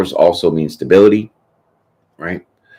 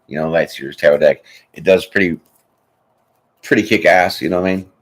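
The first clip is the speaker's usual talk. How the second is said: usual speaking voice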